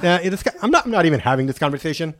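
mildly sassy brush-off, picking up speed; quick, lightly acted sassy refusal; sassy dismissal, retold. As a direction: replay yourself refusing to engage. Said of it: "when my sassy came out".

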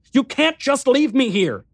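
high, loud pleading cry; desperate cry. A narrator's reading. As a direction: beg him not to go. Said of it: "I cried out".

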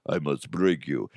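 put-on Russian threat, suddenly low; deadpan Russian tough guy; Russian heavy. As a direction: menace in a mock Russian accent. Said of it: "I would do that voice".

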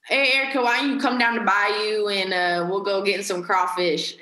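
impression of a Cajun dad calling out; friendly Cajun invitation; Cajun dad accent. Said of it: "they'll talk like that".

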